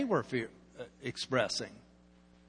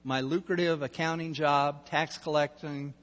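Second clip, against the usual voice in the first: inner grumble; 6 semitones lower, 7 dB quieter than usual. Retold or imitated. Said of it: "This guy is thinking".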